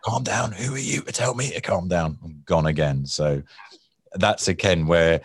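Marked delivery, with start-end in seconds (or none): 0.0-2.2 high, outraged mock echo of calm down; indignant retort. Angry man mocking the negotiator's calm down, high indignant retort. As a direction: throw the words back, offended and rising.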